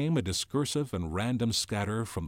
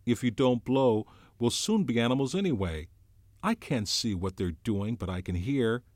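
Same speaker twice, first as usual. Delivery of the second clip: put-on higher, louder voice of a worried boy; anxious boy Piggy; 5 semitones higher, 5 dB louder than usual. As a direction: fret and urge like a scared schoolboy. Piggy's voice held.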